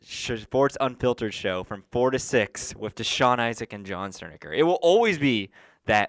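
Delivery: loud, hyped-up wrestling promo. Pretend. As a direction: bellow it like a ring announcer. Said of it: "cut a quick promo real fast".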